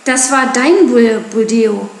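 narrator's contained mob yell; shouting villagers. A narrator's reading. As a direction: call it out as an outraged villager. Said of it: "schrien die Dorfbewohner".

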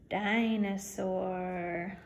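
Dinosaur said very slowly, beat by beat; syllables tapped. Shown as a demonstration. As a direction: drag out Dinosaur in three beats. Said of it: "let's tap it out".

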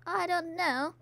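a soft whispered shrug. Real, not acted. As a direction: whisper it sheepishly. Whispered reply to friend.

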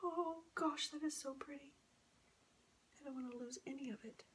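soft, hushed admiration; soft and breath-light, nearly whispered. Real, not acted. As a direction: keep it down, almost whispering in awe. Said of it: "Why am I whispering".

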